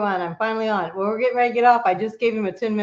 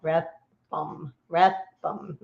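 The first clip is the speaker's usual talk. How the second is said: slow careful name attempts; 3 semitones lower, 3 dB quieter, much slower than usual. Real, not acted. Host retrying a tricky name, said slowly and carefully. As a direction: say Rathbum slowly and separately, softly. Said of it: "why I can't say that fast".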